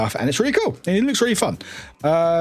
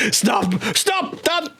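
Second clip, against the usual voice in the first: laughing stop; 14 semitones higher, much slower than usual. Real, not acted.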